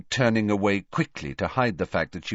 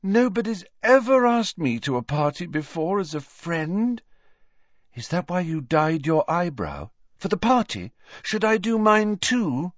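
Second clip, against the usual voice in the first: beaming Luna; 9 semitones higher than usual. A narrator's reading. Luna accepting Harry's invitation, airy and delighted. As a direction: let the joy float out dreamily.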